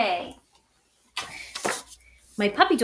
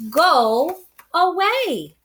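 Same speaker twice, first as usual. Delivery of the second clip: slow, firm and higher dismissal; gruff go away; 6 semitones higher, 4 dB louder, slower than usual. A narrator's reading. Bear turning the mouse away, slow and firm. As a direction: send the mouse off firmly. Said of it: "Bear said".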